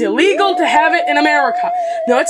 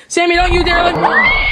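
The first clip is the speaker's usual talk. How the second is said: shouting; 3 semitones higher, 3 dB louder than usual. Acted. Yelling as friend flees.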